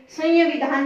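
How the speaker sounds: संविधान distorted to "sanya-vidhaan"; wrong pronunciation. Shown as a demonstration. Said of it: "नहीं बोलेंगे". (संविधान को "संयविधान" की तरह)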